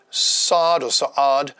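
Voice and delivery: Saad then Sa'ad spelled out slowly, both versions; careful pronunciation. Shown as a demonstration. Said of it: "forgive me for the pronunciation".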